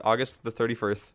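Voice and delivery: August the thirty-first spelled out formally; reading exactly as typed. Shown as a demonstration. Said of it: "as our show notes were typed out".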